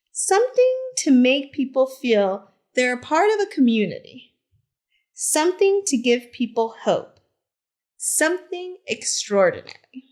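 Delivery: gentle, expressive picture-book narration; reading to children. A narrator's reading. Teacher reads Harvey Milk's story to the class, storytelling voice. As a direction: tell it like story time on the rug.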